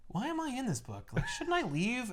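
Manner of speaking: soft, lost question; a mumbled plea to go home; quiet Hulk. Retold or imitated. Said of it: "He's just more like".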